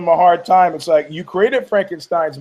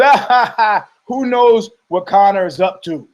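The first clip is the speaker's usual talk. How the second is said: higher, louder fake laugh then shrugging line; mock dismissive laugh; 4 semitones higher, 4 dB louder than usual. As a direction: laugh it off like nothing matters. Imitating the same laughing answer.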